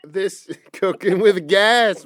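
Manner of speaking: slow, amused echo through a laugh; tickled, drawn-out repeat. Real, not acted. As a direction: laugh as you slowly repeat the phrase. Cracking up at friend's story.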